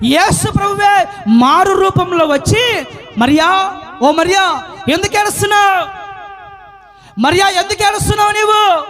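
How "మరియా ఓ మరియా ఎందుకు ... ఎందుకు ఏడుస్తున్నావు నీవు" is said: Jesus. Retold or imitated. Voices Jesus calling out to Mary.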